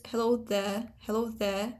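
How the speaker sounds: "there" with no R at the end; non-rhotic. Shown as a demonstration. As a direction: end "there" on a plain vowel. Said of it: "this is a non-rhotic realization".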